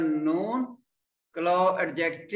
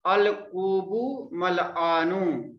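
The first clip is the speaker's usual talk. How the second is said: slow model; slower than usual. Shown as a demonstration. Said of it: "teacher models sentence".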